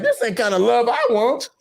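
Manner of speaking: mock complaint. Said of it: "I'm like".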